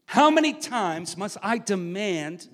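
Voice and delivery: mildly sharp royal rebuke, acted; sharp retort. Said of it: "the king replied sharply".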